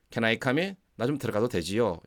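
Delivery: easy, familiar ask to come in; casual request. Shown as a demonstration. Teacher asking a familiar friend to come in, casually. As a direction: ask like you already know them. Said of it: "이런 느낌이 강하게 온다는 거죠".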